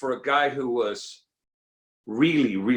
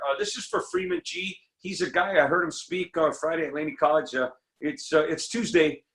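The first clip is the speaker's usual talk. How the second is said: voicemail message; 4 semitones higher than usual. Retold or imitated. Leaving a phone voicemail.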